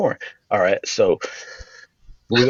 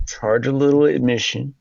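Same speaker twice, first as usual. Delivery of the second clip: lightly Southern preacher's pitch; a touch of Southern church leader selling the idea; Southern accent. Retold or imitated. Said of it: "I have to have a Southern accent".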